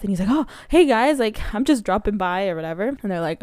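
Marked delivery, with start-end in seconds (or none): 0.3-2.5 mock out-of-breath greeting, pitched up at first; lightly acted breathless hello. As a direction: imitate someone breezily dropping in, winded. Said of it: "super out of breath".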